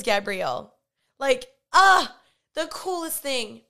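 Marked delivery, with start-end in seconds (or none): 1.2-3.6 higher, much louder excited burst; thrilled. Real, not acted. Telling viewers her goal came true, thrilled. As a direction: gush with delight.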